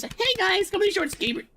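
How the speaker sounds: high calling-out voice. Real, not acted. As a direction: call the group over. Calling out to the group.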